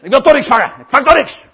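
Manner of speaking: loud, high sulky grumble; hammed-up grouchy complaint; grumpy. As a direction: moan defeatedly at full volume. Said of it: "maar dan heel zagrijnig".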